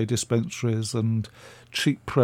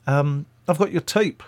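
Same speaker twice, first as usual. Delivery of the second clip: put-on amateur Scottish accent, slightly raised pitch; Jimmy Mack; 3 semitones higher than usual. Radio man ringing about her tape, in an imitated Scottish accent. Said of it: "That's a Scottish accent".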